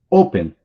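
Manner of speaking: "Open" with a strong, punched O; stress on first syllable. Shown as a demonstration. Teacher has students try pronouncing it, stressed first syllable on "Open". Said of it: "você pronuncia mais forte".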